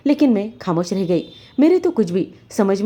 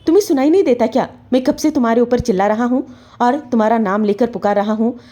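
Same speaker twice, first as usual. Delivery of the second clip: fast, higher angry scolding; angry shout; 4 semitones higher than usual. Acted. Husband scolding wife for not answering, angry. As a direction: snap at her for not coming. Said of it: "ज़ोरदार आवाज़ लगाई".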